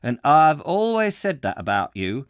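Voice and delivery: put-on Yorkshire accent. Warehouseman gives Jack his verdict, emphatic Yorkshire accent. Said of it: "this is very difficult to, uh, interpret".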